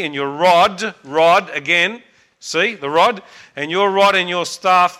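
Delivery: steady, measured reading of a psalm; psalm recitation. Acted. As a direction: recite it like a Sunday school teacher.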